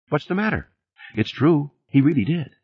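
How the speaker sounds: high-pitched woman defending herself; protesting woman. Acted. She defends her story when interrupted.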